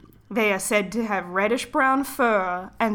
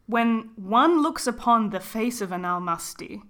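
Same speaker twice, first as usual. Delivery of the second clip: slow, breathy spooky narrator; hushed ghost-story reading. Acted. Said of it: "spooky voice".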